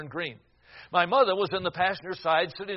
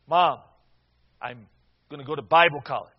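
raised voice, louder, trying to be heard; louder retelling; 3 semitones lower, 9 dB louder than usual. Retold or imitated. Son repeats the news to unresponsive parents, louder. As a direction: say it again, pushing louder to get through. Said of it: "I leaned a little further forward and I said".

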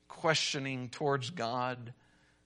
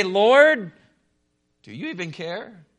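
anguished cry; 3 semitones higher, 8 dB louder than usual. Retold or imitated. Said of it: "we are tempted in our hearts to say".

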